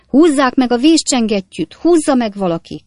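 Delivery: high, loud cries for help; shouting. A narrator's reading. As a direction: raise the alarm in a panicky shout. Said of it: "kiáltották többen is". (magas, hangos, riadt kiáltás)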